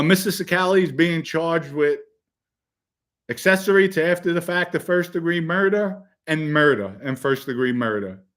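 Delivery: formal courtroom announcement; judge reading charges. Retold or imitated. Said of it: "the judge says".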